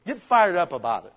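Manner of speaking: pushed, rousing exhortation; fired-up call. Shown as a demonstration. Pastor urges the congregation to get fired up, rousing. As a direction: push the words fired up harder. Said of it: "repeated louder".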